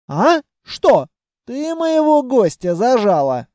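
a living treasury caught out, answering high and loud; startled treasury voice. Acted.

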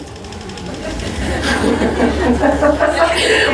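a short airy laugh at her own joke; breathy laugh. Real, not acted. Laugh after mocking rhyme.

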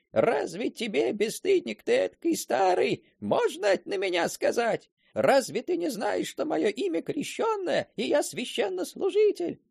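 a deacon's offended outcry; angry outburst. Retold or imitated. Offended deacon scolds the old servant, indignant cry. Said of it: "а сами кричат".

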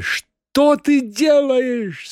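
high, slow anguished shout; anguished cry. Acted. Master horrified at Margarita, anguished high cry. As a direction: cry out in suffering. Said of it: "страдальчески прокричал мастер".

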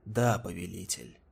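low, submissive servant reply; cowering servant. A narrator's reading. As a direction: answer meekly, head bowed.

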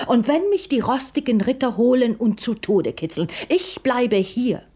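stubborn prince. Acted.

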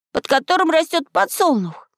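put-on very high boyish voice; high, ringing young voice; ringing conclusion. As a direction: finish high and triumphant. Boy finishes his ringing question.

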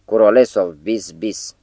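retold howling. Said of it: "urlă într-una".

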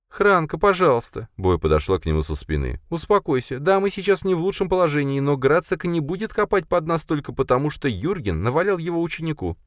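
plead, pitched high; Boya voiced. A narrator's reading. Boya soothes Khranka from behind, high pleading.

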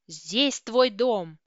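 loud, drawn-out roar; furious yell. A narrator's reading. Ruslan yelling at Olivia as he hits the wall, furious yell. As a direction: bellow each word slowly and forcefully. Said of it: "заорал он".

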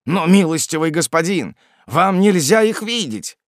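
high-pitched, anxious plea; alarmed protest. Acted. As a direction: object in alarm, stretching the end. Испуганный смотритель не пускает гостя. (встревоженное возражение, высоким голосом)

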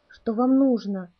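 slow, trying to sound steady; forced calm. Acted. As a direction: keep your voice even through fear. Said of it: "постарался говорить ровно капитан". (медленно, стараясь говорить ровно)

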